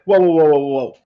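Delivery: loud, urgent whoa, whoa. Acted. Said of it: "He's like".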